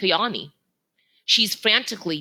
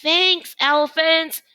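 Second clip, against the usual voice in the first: little gorilla thanking; 12 semitones higher, 5 dB louder, slower than usual. A narrator's reading. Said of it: "says Kudzu".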